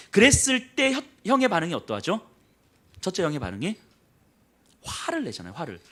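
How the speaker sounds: normal talking voice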